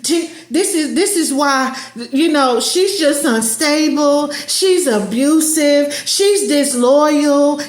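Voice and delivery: slow, deliberate gossiping; mock smear gossip. Narcissist smearing the ex to others, slow and gossipy. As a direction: drag each label out slowly.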